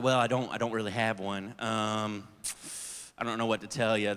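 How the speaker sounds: low, soft, hesitant admission; sheepish. Retold or imitated. Applicant awkwardly admitting to the interviewer he has no faith. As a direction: confess awkwardly. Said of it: "I was like".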